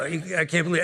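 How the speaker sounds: lightly put-on Italian-American Brooklyn accent. Stranger getting into the elevator, Italian Brooklyn accent. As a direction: mimic a Brooklyn Italian making small talk. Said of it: "This is my Italian, uh, Brooklyn accent".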